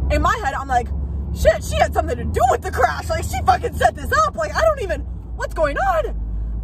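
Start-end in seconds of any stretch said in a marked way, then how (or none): 1.3-6.6 higher, rising panic, slowing at the end; inner panic. Retold or imitated. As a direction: spiral into a frightened thought.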